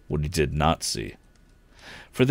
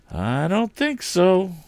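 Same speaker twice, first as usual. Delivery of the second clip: firm; 14 semitones higher, slower than usual. A narrator's reading. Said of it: "repeated Mister Swift's son".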